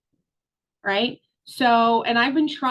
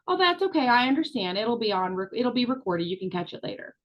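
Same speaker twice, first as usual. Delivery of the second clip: soft understanding. Retold or imitated. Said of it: "regular Sandra might say".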